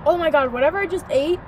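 gagging with disgust; talking after spitting food out; just ate something, mouth half full. Real, not acted. Seen 1: Left speaker covers mouth, spits into hand, grimaces in disgust.

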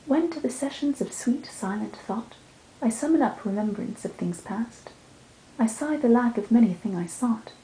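measured, mournful verse reading; sonnet recital. Acted. Reading Shakespeare's sonnet aloud, gentle recital.

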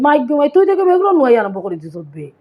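quick playful jibe; teasing talk. Retold or imitated. Sylheti speaker teasing someone who keeps moving things, playful. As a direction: rib someone for shuffling things around. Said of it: "ফুংটামি মাত আরে কইবে".

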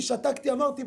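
ordinary delivery

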